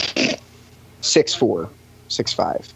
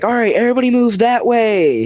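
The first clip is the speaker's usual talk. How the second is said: pitched-up, long-carried call, not truly shouted; crowd-clearing call; 11 semitones higher than usual. Retold or imitated. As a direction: re-enact calling out to move people aside. Re-enacts calling out to crowd.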